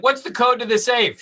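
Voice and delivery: high, loud mock yell at the hostage; mock scream. Burglar screams at the tied-up mom, loud mock yell. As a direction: bark it like a burglar in her face. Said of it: "you scream in her face".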